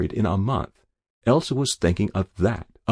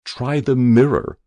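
distant voice; 5 semitones higher, 6 dB louder than usual. A narrator's reading. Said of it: "said a distant, terrible voice".

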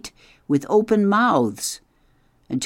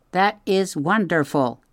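a higher, even robot voice, careful and kind; polite robot; 8 semitones higher than usual. A narrator's reading. Roz greets the startled beavers, gently robotic. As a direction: speak like a gentle machine trying to reassure.

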